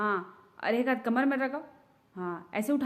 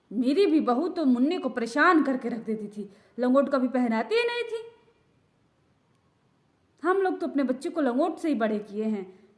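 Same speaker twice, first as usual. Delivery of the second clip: put-on elderly relative. Old aunt advising the new mother, lightly lowered gossipy voice. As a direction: lecture the new mother like a know-it-all elder.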